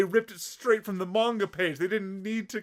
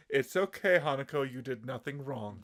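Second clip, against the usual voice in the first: reassuring teacher; 5 semitones lower, 4 dB quieter than usual. Retold or imitated. Teacher reassuring a supposed victim.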